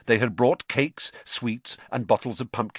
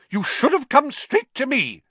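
higher, louder scolding nurse; raging matron; 6 dB louder than usual. Acted. Matron scolds boy for late visit, angry and higher. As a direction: tear into him for not coming first. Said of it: "she raged".

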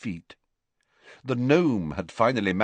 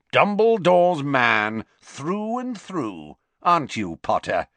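cold minister; 7 semitones higher, 5 dB louder than usual. A narrator's reading. Minister coldly accusing Harry.

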